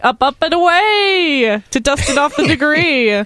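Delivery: superhero. Acted. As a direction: call it out like a cartoon hero taking flight. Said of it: "He just did the superhero motion".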